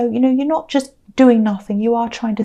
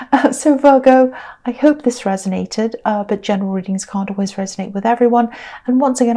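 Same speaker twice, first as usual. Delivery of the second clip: tired, croaky voice; a croaky, worn-out voice. Real, not acted. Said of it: "sorry about my croaky voice".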